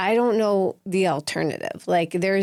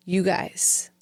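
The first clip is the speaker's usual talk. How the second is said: firm but calm. Retold or imitated. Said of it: "Like, firm, but, like, not screaming".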